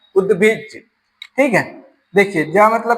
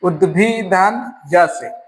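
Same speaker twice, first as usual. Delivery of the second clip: broken into parts slowly; 2 semitones lower, much slower than usual. Shown as a demonstration. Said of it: "तोड़ तोड़ के लिख देते हैं".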